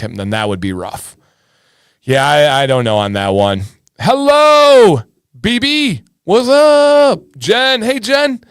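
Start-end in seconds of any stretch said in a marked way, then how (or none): 4.0-8.4 high, loud sing-song hello; bright hype shout-out to a viewer; excited greeting. Real, not acted.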